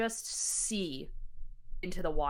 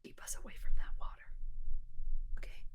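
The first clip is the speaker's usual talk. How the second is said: chilled plea; 3 dB quieter than usual. Acted. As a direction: whisper it as a frightened plea. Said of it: "a chill runs down her spine".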